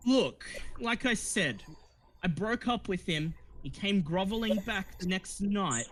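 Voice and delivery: high, cool and dismissive; cold actress. Acted. Actress explains Paul's breakup to the party, high and cool. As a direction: tell it coolly, pitched high.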